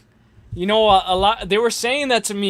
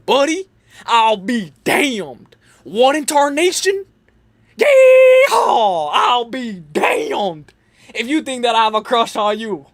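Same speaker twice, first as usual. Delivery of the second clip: put-on Clown's cowboy accent; 3 semitones higher, 4 dB louder than usual. Imitating Clown's indignant answer about a crush, in a hammed-up cowboy accent. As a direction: exaggerate an indignant Old West cowboy accent, yeehaw and all. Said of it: "say it in his accent".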